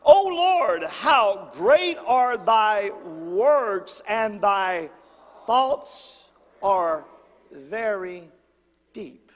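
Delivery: slow, loud, drawn-out scripture reading; congregational reading. Shown as a demonstration. Pastor leading the congregation in reading, slow and loud. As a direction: lead the church in reading aloud. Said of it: "let's read this out loud together".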